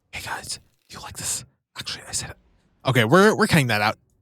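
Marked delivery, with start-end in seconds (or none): 0.1-2.3 very quiet, soft, whispered ASMR voice. Narrating a game video to viewers, in ASMR voice. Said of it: "why am I doing it in A S M R voice?".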